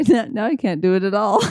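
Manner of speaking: laughing through the words at her own failed try. Real, not acted. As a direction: giggle while admitting defeat. Laughing at failed accent attempt.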